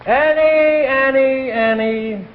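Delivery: loud, high, then fading; exasperated calls. Acted. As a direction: call her name to stop her, dying down. Husband cuts off her complaint.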